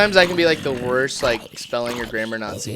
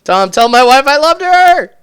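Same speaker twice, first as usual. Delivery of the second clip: dramatic dying cry, high and loud; wounded soldier gasping; 13 dB louder than usual. Pretend. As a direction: shout last words like a fallen soldier. Mock dying last words.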